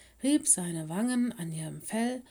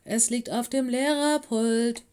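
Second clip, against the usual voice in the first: higher, loud call to someone hard of hearing; shouting back; 5 semitones higher, 5 dB louder than usual. A narrator's reading. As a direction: call out insistently to get through. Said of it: "schrie Rex zurück".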